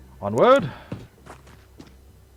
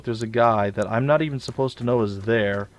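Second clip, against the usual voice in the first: lightly voiced gloating aliens, louder; imitating the enemy; 4 dB louder than usual. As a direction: taunt like a smug enemy. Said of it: "it feels like they just go".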